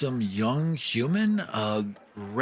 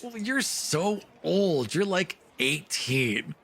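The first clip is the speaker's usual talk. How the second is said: put-on high, slow child's teasing voice; teasing little girl; 8 semitones higher, slower than usual. Little sister teases her brother about his age, high slow child voice. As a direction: tease him like a cheeky kid sister. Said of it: "She's like".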